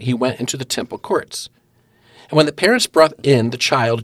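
measured Bible-reading cadence; scripture reading aloud. Real, not acted. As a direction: read the passage out phrase by phrase to listeners.

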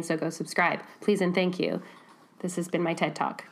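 hoarse from a cold; croaky under-the-weather voice; sick voice. Real, not acted. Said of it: "With B M I sick voice".

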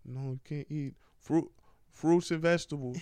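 put-on Cuban accent. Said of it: "He like".

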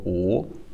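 "u" without rounding the lips too much; limited rounding. Shown as a demonstration. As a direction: keep the lips only partly rounded on "u". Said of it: "without rounding too much".

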